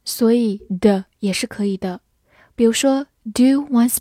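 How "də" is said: "的" as a reduced duh; unstressed schwa vowel in "的"; weak form. Shown as a demonstration. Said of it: "O也可以弱读成呃".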